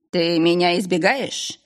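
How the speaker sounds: hissed. Acted. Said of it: "прошипел Золтарион".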